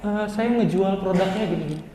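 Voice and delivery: soft, half-hearted imitation of a presenter; imitating unprepared pitcher. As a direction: act out a student pitching without eye contact. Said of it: "Tiba-tiba kalian ngomongnya".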